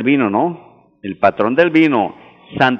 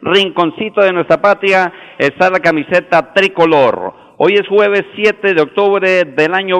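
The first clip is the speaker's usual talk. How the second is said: booming balcony speech; 3 semitones higher than usual. Real, not acted. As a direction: whip up the listeners for the match. Host cheering Colombia match day.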